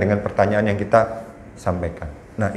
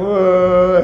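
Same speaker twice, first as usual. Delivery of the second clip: put-on child's startled wah; 7 semitones higher, 4 dB louder than usual. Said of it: "akhirnya cuma gitu aja dia langsung".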